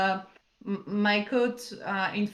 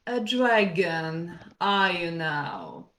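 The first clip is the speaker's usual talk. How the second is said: a slow, lower rumbling dragon; 3 semitones lower than usual. Acted. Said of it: "I'll take my dragon voice and say".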